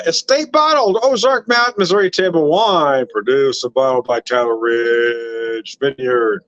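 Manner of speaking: put-on lightly done old radio announcer reading the label. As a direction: read the wine label like a radio ad. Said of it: "went into A M radio voice".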